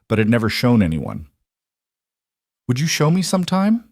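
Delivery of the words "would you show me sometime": tentative question, lifted high; careful, gentle asking. A narrator's reading. Eleanor asking Grace to share her poetry, careful and unpushy. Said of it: "Eleanor asked carefully, not pushing".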